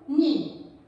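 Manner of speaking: "ni" said alone and firmly; single out "ni" as the stressed syllable; sílaba tônica isolada. Shown as a demonstration. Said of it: "elas possuem a sílaba mais forte". ("ni" isolado e firme)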